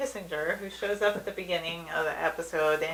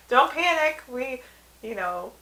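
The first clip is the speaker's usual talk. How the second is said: high, raised-voice alarm; retold cartoon panic, pitched up; mock panic; 6 semitones higher, 6 dB louder than usual. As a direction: act out a comic frantic warning. Retelling Homer's panicked warning.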